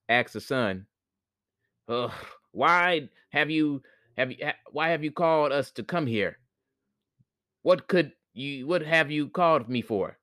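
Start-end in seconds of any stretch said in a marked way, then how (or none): 1.9-10.2 higher, puzzled spirit voice; East spirit voice. Acted. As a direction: ask it higher and quicker, puzzled. East orbit questions the sun.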